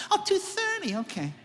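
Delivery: high surprised oh; baffled intern. Retold or imitated. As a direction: sound totally lost at the phrase.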